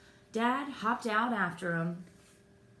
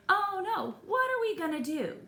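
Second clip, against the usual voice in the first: panicked; 12 semitones higher, 4 dB louder than usual. Acted. Panicked character line in story.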